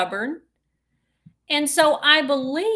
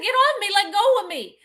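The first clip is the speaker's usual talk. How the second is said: retold protest; 8 semitones higher, 4 dB louder than usual. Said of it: "and I said".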